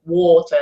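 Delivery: "water" with an "or" sound in the first syllable; British "or" vowel. Shown as a demonstration. Explaining the British vowel to an American, rounded "or" in "water". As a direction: say "water" as "waw-tuh". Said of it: "No, it's also or".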